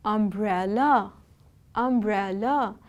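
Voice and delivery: "umbrella" slowly in three parts, um-brel-la; syllable by syllable. Shown as a demonstration. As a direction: draw out each syllable of "umbrella" for learners. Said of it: "This word has three syllables".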